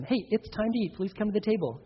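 soft, matter-of-fact instruction with falling ends; quiet, settled parental directive; telling, not asking. Shown as a demonstration. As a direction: calmly tell a child to come. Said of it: "You just tell them".

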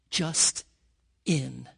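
slow near-whisper on the last word; hushed, drawn out. Acted. Father reassuring his daughter, slowing to a hush. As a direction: let the words fade to a whisper. Father's gentle story climax.

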